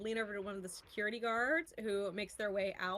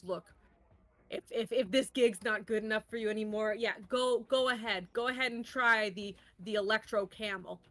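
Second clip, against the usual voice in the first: boss dismissing her; faster than usual. Acted. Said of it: "And he goes".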